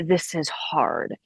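soft and slow, kind to herself; gentle compassionate voice. Retold or imitated. She comforts herself as she would comfort a friend, softly and slowly. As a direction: speak it softly, as to a hurting friend. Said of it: "I would say".

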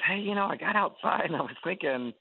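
high, quick eager pitch from a fan. Retold or imitated. Fan returning to their birthday table, eagerly pushing in. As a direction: rush it out like an overeager fan.

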